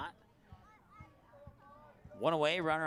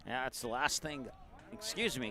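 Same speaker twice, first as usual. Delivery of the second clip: talking through hiccups; hiccupping between words. Real, not acted. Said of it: "got the hiccups here".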